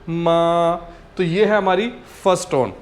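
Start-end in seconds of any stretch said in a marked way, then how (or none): 0.1-0.7 मा held level and flat, no rise or fall; first tone. Shown as a demonstration. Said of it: "कोई उतार चढ़ाव नहीं है". (मा को सीधी सपाट टोन में)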